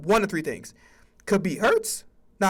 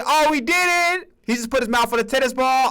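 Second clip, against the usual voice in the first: mock colleague; 4 semitones higher than usual. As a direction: play the prim coworker. Colleague about dog.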